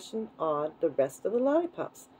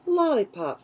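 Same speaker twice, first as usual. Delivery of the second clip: higher, louder crocodile delight; excited exclamation; 6 semitones higher, 3 dB louder than usual. A narrator's reading. Crocodile exclaiming at the offer of lollipops, excited. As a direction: pipe up with keen interest.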